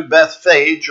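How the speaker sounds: "Bethphage" said as Beth-fayj, two syllables; variant pronunciation. Shown as a demonstration. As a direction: say "Bethphage" with an f sound, ending like "page". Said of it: "as I heard it pronounced recently".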